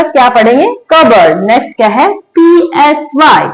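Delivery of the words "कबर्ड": कबर्ड said with no P before the B; silent P in cupboard. Shown as a demonstration. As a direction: say कबर्ड, straight into the B. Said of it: "पी silent रहेगा".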